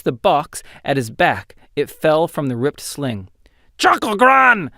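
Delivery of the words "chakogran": higher, louder excited squeal; creature squeal. A narrator's reading. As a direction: squeal pointing at the prize. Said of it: "squealed the creature".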